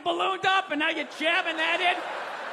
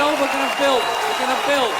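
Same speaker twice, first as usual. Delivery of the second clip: put-on a loud, hint-of-folksy old man; loud, lightly played eager grandpa; lightly voiced cheerful old man; 3 semitones lower, 9 dB louder than usual. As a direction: boom it out like a hearty old builder. Carter voiced building houses.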